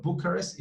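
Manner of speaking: Bucharest as BOO-kuh-rist; stress on first syllable. Shown as a demonstration. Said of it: "popular pronunciation".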